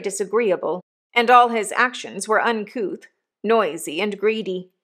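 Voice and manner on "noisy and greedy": ordinary delivery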